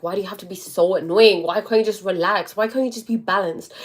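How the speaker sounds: mildly loud, retold exasperation; pleading mock irritation, pushed a little; exasperated arguing. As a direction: act out fighting back at a worrier. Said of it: "I would fight it and be like".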